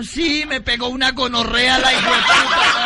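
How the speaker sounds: put-on high coy girlish voice; girl's voice. Young woman confessing to priest, high coy voice.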